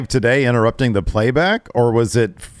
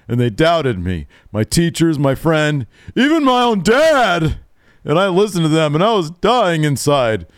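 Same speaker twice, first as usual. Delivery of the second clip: imitating Darby; 5 semitones higher than usual. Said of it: "Darby says".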